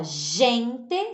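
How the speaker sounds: "gente" slowly with initial zh; teacher's careful "gente", soft g. Shown as a demonstration. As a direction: spell out "gente" as zhen-te. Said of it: "só G E".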